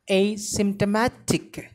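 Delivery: "Asymptomatic" stressed on "A" and "ma"; stress on two syllables. Shown as a demonstration. Teacher showing learners both stresses in "Asymptomatic". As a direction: hit the "A" and the "ma" in "Asymptomatic". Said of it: "the stress is given on very first syllable as well as, uh, on ma syllable".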